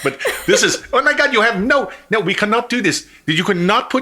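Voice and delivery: put-on Indian accent, pitched way up. Retelling how an indian guy reacted, imitating an indian accent. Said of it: "Indian guy went".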